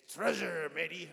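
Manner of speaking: loud growled pirate call. Shown as a demonstration. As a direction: bellow it like a pirate. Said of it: "say it like you're kind of like a pirate".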